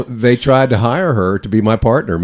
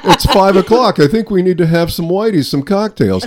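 put-on Pop Pop accent; 8 semitones higher than usual. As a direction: call for cocktails like Pop Pop. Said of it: "this talking like that".

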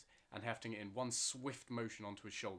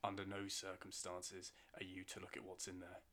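softer, grave warning; quiet warning; 2 semitones lower, 5 dB quieter than usual. Acted. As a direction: lower your voice, menacing. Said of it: "voice grew quiet".

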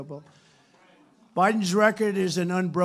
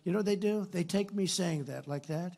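ordinary talk, nothing marked

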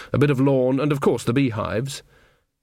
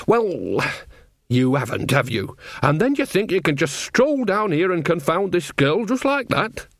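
lightly voiced, lively fussing old witch; scolding Nanny; 5 semitones higher than usual. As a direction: chide a stubborn friend, lifting to a question. Nanny scolds tired Granny.

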